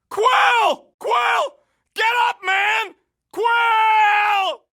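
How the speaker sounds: alarmed shouting. Acted. Gunner yells at fallen Quill to get up, alarmed shouting. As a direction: shout him back to his feet. Quill down, calling him urgently.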